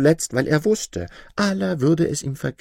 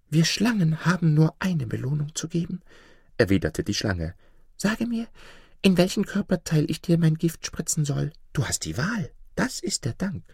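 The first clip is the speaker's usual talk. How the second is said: menacing snake; 5 semitones higher than usual. Acted. Snake threatens man.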